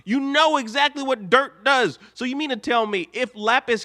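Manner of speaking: an outraged fan scolding Steven; exasperated rant. Real, not acted.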